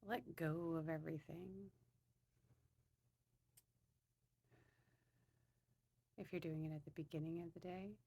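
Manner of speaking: calm, hushed guidance with unhurried pauses; guided meditation. Real, not acted. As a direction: ease listeners gently into settling down.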